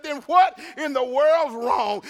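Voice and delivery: drawn-out exasperated question; mock exasperation. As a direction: imitate a husband at his wit's end. Acted husband's exasperated question.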